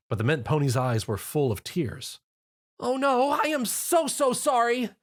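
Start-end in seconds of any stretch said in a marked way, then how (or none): 2.8-4.9 high teary apology; tearful apology. A narrator's reading. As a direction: sob out how sorry she is. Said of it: "she cried".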